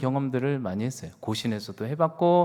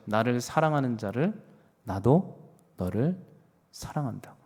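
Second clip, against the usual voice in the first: 하나님의 다정한 약속; tender voice of God; 2 semitones lower, 3 dB quieter than usual. Acted. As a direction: say it like a gentle promise. Quoting God's promise.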